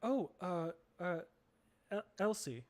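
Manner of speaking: put-on high, nervous village girl; frightened girl. Young woman startled by a stranger, stammering. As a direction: stammer out her name, startled.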